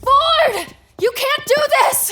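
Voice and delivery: high, loud yell after him; desperate shout. Acted. Dragged away, yelling at Ford. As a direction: yell across the room, desperate.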